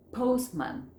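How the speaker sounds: "postman" said without the t, pos-man; silent middle T. Shown as a demonstration. Teacher showing the three-consonant rule, T left out. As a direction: drop the t in "postman". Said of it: "la del medio entonces no se pronuncia".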